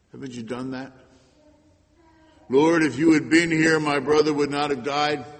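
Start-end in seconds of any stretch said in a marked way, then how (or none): 2.5-5.2 loud, raw accusation at the Lord; anguished complaint. Acted. Preacher voicing Martha's complaint to Jesus, loud and anguished. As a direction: throw the grief at God full voice.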